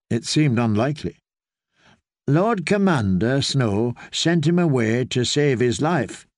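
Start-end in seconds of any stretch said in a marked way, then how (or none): 2.3-6.2 hesitant. Acted. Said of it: "he began hesitantly".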